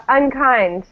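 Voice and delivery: slow "unkind" with the stress on "kind"; teacher's careful "unkind", strong second syllable; stress at the end. Shown as a demonstration. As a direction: draw out "unkind", leaning on the last syllable. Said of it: "At the end, right?".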